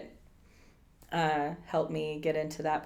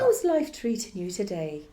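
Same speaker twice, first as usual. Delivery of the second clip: motherly Irish; 3 semitones higher than usual. Acted. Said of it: "that very motherly communication".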